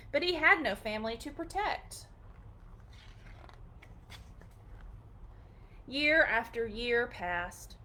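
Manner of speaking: gentle storybook reading; storybook read-aloud, gentle and clear; reading to children. Acted. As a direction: read it like a bedtime picture book. Reading picture book aloud.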